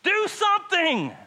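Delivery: desperate, high-pitched scream for help; panicked full-force shouting. Acted. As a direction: scream it loud like you are about to drown. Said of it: "They are screaming".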